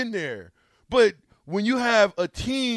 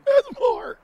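mock whiny echo; 14 semitones higher than usual. Mocking player's teary speech.

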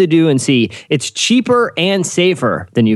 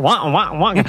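mock sad trombone; wah-wah like a clown horn; 3 semitones higher than usual. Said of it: "A little clown horn".

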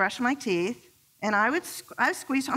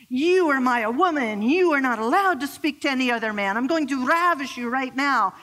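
a hint of a slimy Italian charmer, louder; playful mock-possessive declaration, a little louder; lightly voiced Luigi; 3 semitones higher, 4 dB louder than usual. Husband playing Luigi to his jealous wife, a touch of slimy Italian charm. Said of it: "create a sub-personality for himself called Luigi".

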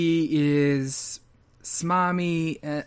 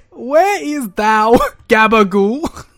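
slow, loud, raised mock-archaic plea; mystical D and D character; 4 semitones higher, 7 dB louder, slower than usual. Co-host voicing a mystical New Yorker seeking gabagool, hammed-up. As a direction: proclaim it with fantasy grandeur. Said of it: "character he was playing".

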